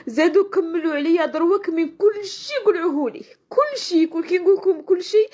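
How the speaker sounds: tearful, rising indignation; crying out in angry despair. Real, not acted. Upset woman complains channel stolen. (بكاء غاضب)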